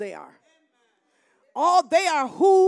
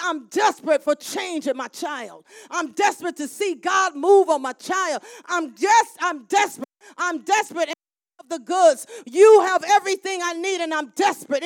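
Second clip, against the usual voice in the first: desperate crying out; 3 semitones higher, 5 dB louder than usual. Acted. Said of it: "But she was crying out".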